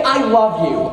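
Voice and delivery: "I love you" with a questioning lift; tentative question, not a declaration. Shown as a demonstration. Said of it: "you basically phrase it as a question".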